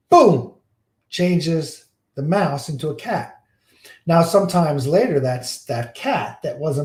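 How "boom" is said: higher, louder magic boom; storyteller's sudden boom; loud mock boom. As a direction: belt it out like a magic spell firing. Magic transformation sound.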